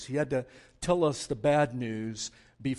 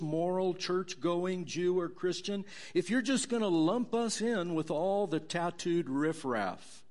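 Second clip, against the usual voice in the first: self-righteous churchgoer; 6 semitones higher than usual. Acted. Religious people retort to Paul.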